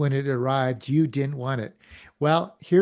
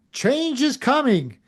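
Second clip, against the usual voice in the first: much higher, slow proclamation; rally speaker; 9 semitones higher, 3 dB louder than usual. Pretend. Speaker at a rally announcing change, slow proclamation. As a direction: announce it slowly like a leader at a rally. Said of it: "stands up at the front of whatever business".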